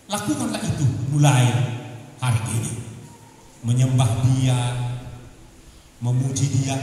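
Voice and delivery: loud preaching, pitched low; urgent sermon call; forceful preaching. Acted. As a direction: press the point on the listeners.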